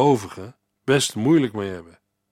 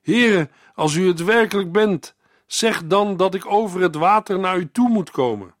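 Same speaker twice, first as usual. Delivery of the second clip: Peter calling out; 6 semitones higher than usual. Acted. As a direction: call out to the Lord from the boat. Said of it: "En Petrus riep".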